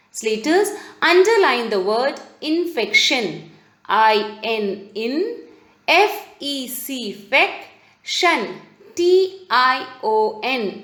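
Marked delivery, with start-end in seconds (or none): 3.9-10.8 letters, then each syllable sounded; deliberate classroom spelling in chunks. Shown as a demonstration. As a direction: break the word up for pupils. Teacher spells word syllable by syllable.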